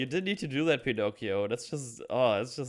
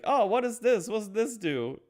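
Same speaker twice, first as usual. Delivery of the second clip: very high, louder curious wonder; childlike wonder; 10 semitones higher, 3 dB louder than usual. Retold or imitated. Pinocchio exploring the workshop, high wondering voice. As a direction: ask it like an amazed child.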